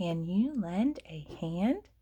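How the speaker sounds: whispered, read-aloud delivery. Leading listeners through reading a poem aloud together: whisper reading. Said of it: "We're going to whisper read unless we touch the word will".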